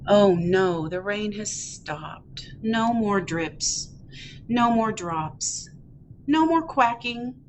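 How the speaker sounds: slow, drooping read-aloud disappointment; sad duckling. Acted. Ducky finding the rain has stopped, mildly sad. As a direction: let the lines sink in mild storybook sadness. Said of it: "I'm feeling sad".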